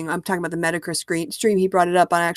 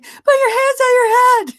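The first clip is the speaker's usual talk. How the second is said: loud, slow, high mock police shout; hammed-up officer yell; barked command; 7 dB louder, slower than usual. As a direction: bark it like a cop. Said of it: "You're like".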